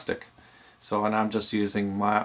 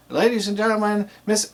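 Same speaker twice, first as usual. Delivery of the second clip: higher, building emcee call; enthusiastic build-up; 10 semitones higher than usual. Shown as a demonstration. DJ showing the build-up announcement, enthusiastic. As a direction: build the phrase up toward the names. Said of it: "I said it in a way that's enthusiastic".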